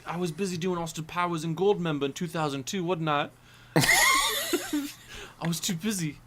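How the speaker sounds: a Cockney voice that keeps slipping; Michael Caine impression. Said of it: "This accent is all over the place".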